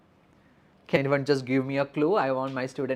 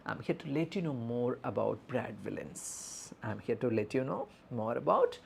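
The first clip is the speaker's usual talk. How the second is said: soft, gentle nurse introduction; empathetic; 3 semitones lower, 6 dB quieter than usual. Shown as a demonstration. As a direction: reassure an anxious bystander in a softened voice. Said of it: "So we are empathetically addressing".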